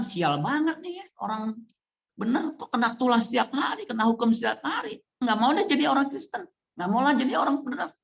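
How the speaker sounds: high, whiny complaining voice; grumbling believer. Retold or imitated. Preacher mimics a believer complaining about trials, high and whiny. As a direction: whine like a fed-up churchgoer. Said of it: "kita bilang".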